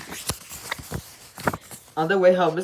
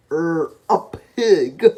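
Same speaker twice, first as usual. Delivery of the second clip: drawn-out, hesitant guess; slow unsure guess; 6 dB louder, much slower than usual. Acted. Dizzy guesses wrongly.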